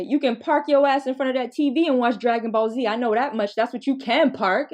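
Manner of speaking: brisk, animated grandma telling-off; scolding grandma. Retold or imitated. Grandma refusing the child's park request, mock scolding. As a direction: give a quick, punchy grandmotherly scolding.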